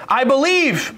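frustrated. Retold or imitated. Doubting father declares his faith to Jesus, frustrated. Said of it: "Can you see the frustration in his voice?".

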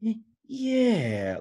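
high drawn-out stoner yeah; stoner drawl. Retold or imitated. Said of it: "But that's how he did it".

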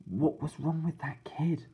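slow hushed whisper; a boy whispering nervously to his babysitter. Acted. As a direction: breathe the question so no one hears. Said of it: "I whispered".

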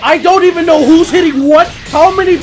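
worked-up confusion. Real, not acted. Player lost in a four v four brawl, worked-up confusion. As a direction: blurt it out in the chaos. Lost in a chaotic team fight.

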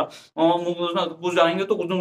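deliberately garbled, slurred words; unclear mumbling. Shown as a demonstration. Teacher showing students unclear speech, mumbled beyond understanding. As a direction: mumble it so nobody can follow. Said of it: "मैंने स्पष्ट नहीं कहा".

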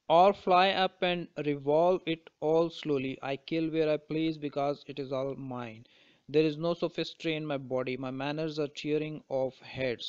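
slow, deliberate poetry reading; measured, unhurried reading of verse; poem recitation. Acted. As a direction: recite the verse slowly, phrase by phrase. Reads the poem aloud.

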